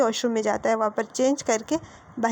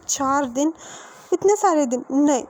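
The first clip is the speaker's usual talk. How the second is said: higher and louder, aghast at the wait; shocked protest; 3 semitones higher, 4 dB louder than usual. Acted. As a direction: blurt it out in dismay. Wing shocked at four days.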